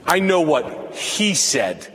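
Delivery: a smug, judging parishioner mutter; gossiping churchgoer. Retold or imitated. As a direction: sneer at the sinner across the pew.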